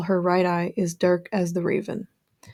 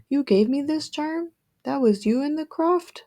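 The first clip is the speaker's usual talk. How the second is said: higher, rising disbelief; surprised questioning; 8 semitones higher than usual. A narrator's reading. Seeker questions the crone about the charm, surprised. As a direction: ask in astonishment, pitch lifting on each question.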